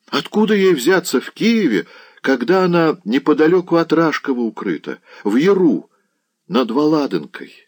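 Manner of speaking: high, insistent servant voice; incredulous protest. A narrator's reading. Servant insisting she is hidden near Rashkov, high incredulous protest.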